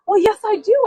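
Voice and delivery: retold reply. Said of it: "she goes".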